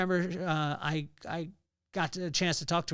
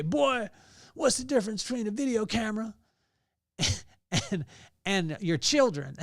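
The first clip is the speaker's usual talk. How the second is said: put-on higher and faster, a playful old father asking a riddle; imitating his pops; 5 semitones higher, 3 dB louder than usual. Imitating his pops as he quizzes his son. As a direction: tease the boy with a riddle in Pop's voice. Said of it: "he would say it like this".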